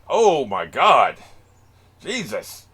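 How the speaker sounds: loud, drawn-out exclamation; real astonishment. Real, not acted. Viewer reacting to the sight on screen, loudly astonished. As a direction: stretch it out slowly and loudly in disbelief.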